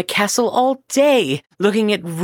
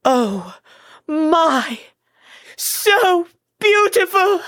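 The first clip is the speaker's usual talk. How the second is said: much higher, slow gasp of wonder; bewitched awe; 7 semitones higher, slower than usual. Acted. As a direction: swoon over the beauty. King bewitched by the statue.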